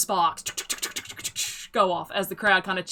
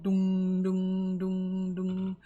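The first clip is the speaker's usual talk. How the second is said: mock bell toll; much slower than usual. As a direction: intone it like a distant gate bell. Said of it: "the sound of a bell tolling".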